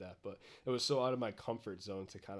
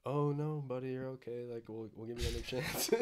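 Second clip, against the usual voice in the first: sweet, higher, hammed-up comforting coach voice; mock coddling coach; 4 semitones higher, 5 dB louder than usual. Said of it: "they're not saying".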